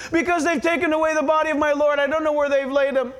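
hurried, mildly distraught plea, acted; acted tearful Mary. Mary answering the angels through tears, mildly acted distress. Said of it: "She's crying".

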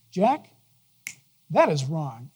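soft, low rebuke; gentle correction. Retold or imitated. Jesus correcting the preacher, gently but plainly. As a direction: correct him quietly, dropping low at the end. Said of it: "I love the tone".

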